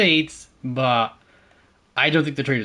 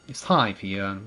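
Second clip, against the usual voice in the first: tentative Welsh accent drifting posh; Welsh attempt gone posh; 4 semitones lower, slower than usual. Shown as a demonstration. Gamer practising his friend's phrase, posh-sounding Welsh attempt. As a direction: try Welsh, land on posh. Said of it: "I'm just going, I'm going posh".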